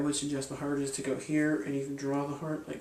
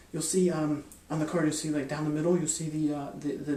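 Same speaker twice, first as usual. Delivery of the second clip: halting, with fillers and repeats; feigned stutter. Shown as a demonstration. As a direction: act unsure of your words. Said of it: "I'm gonna kinda stutter".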